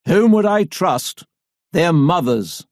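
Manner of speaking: a lightly voiced determined old gentleman; elderly gentleman. A narrator's reading. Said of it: "elderly gentleman rises to his feet".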